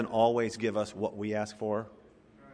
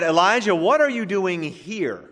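merciful question; 5 semitones higher, 4 dB louder than usual. Retold or imitated. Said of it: "a very merciful one".

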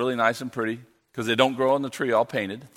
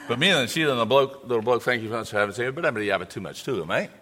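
quick, softer Australian with "Sheila" and "bloke"; Aussie slang; 2 semitones lower, 4 dB quieter, faster than usual. Shown as a demonstration. Missionary thanking the church in Aussie slang, Australian accent. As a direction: chat it off like an Aussie mate. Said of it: "I'm gonna speak the Australian".

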